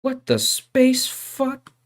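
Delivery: mock surprise. Real, not acted. Exaggerated slow exclamation.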